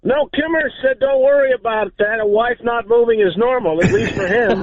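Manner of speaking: a hint of Shatner making a mock emergency call; William Shatner impression. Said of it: "William Shatner calling".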